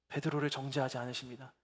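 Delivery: ordinary talk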